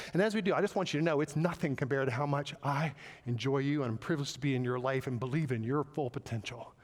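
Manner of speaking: warm reassuring. Shown as a demonstration. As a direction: reassure them gently while addressing the problem. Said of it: "our tone should say, "I like you".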